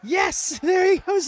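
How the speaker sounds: loud, high cheering with laughter; excited shout. Real, not acted. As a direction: yell it out as the move lands. Cheering a big move live.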